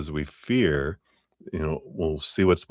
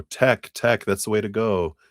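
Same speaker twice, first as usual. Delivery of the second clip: voice of the crowd; 3 semitones higher than usual. Retold or imitated. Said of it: "everyone going".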